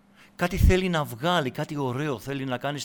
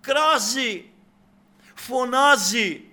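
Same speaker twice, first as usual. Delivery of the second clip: crying out; 8 semitones higher, 7 dB louder, much slower than usual. Acted. Preacher enacts the woman's crying out.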